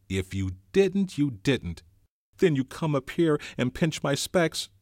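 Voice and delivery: sulky schoolboy complaint; Piggy voice. A narrator's reading.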